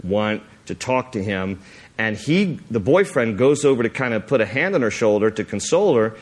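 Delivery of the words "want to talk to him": lightly voiced guttural man; a hint of a possessed, guttural male voice. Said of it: "in this guttural male voice".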